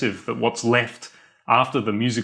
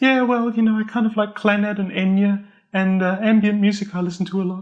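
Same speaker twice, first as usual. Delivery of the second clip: very high falsetto head voice; 10 semitones higher than usual. Mimicking how a man kind of talks, in a high falsetto voice. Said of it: "he kind of talks in a high falsetto like this".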